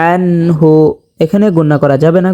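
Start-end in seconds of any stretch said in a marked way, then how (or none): 0.1-0.7 recited আনহু with a clean, unhummed n; without ghunna. Shown as a demonstration. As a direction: say আনহু without holding the n in the nose. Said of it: "গুণনা ছাড়া পড়তে হবে".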